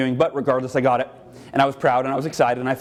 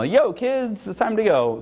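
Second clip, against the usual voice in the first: mom trying to be cool; 4 semitones higher, slower than usual. Retold or imitated. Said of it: "she'd use the word yo when she tried to be cool".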